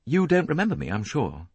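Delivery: pleasant. A narrator's reading. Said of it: "he said pleasantly to Lynette".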